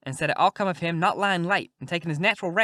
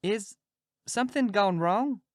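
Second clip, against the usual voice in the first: higher, hesitant and slow; timid; 5 semitones higher, slower than usual. Acted. Huck timidly asking the worried king, timid and higher. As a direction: ask it shyly, afraid of the answer. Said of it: "kinda timid-like".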